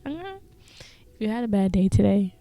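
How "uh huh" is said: high, soft lullaby-like goodnight; tender goodnight. Real, not acted. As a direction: tuck the listener in with a high, hushed voice.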